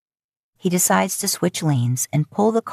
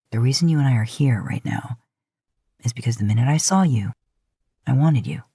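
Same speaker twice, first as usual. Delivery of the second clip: lightly voiced Dean, earnest; 4 semitones lower than usual. Dean's confession, lower.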